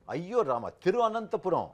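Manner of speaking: high, loud mock wail; ayyo wail. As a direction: exclaim it with a theatrical ayyo. Mock exclaims the long city name.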